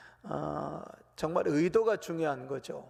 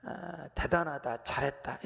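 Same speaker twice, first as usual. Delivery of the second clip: praising. Retold or imitated. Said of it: "칭찬하시는 겁니다".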